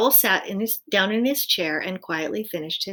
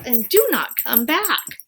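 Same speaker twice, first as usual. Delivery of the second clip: loud, slow warning; stern call; 5 semitones higher, 6 dB louder than usual. A narrator's reading. Owl warning Winter at the door, loud and slow. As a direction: spell it out after him. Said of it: "called Owl".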